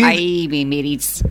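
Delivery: slow pirate greeting; drawn-out pirate talk. Pretend. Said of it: "Are we gonna talk like this?".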